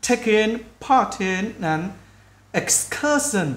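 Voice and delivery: very slow, separated words; slow practice speech. Shown as a demonstration. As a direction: take it word by word for learners. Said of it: "nếu các bạn cứ từ từ nói chậm đi". (nói chậm từ từ)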